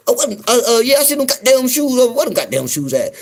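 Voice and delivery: loud mock husband reply; lightly voiced Southern husband. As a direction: answer like the husband, hammed up.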